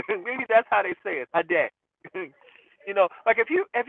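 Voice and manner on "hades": Hades said HAH-deh, open first vowel, no final s; European pronunciation. Shown as a demonstration. Joking to viewers about the brand, says Hades the European way. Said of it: "say it the European way".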